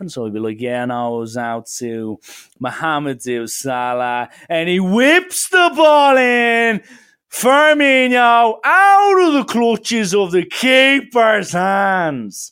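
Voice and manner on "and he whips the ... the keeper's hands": put-on booming, drawn-out, very loud screaming Dublin accent. Imitating a football pundit reacting to a dramatic moment: Keith Andrews screaming Dublin accent. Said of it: "why are you screaming?".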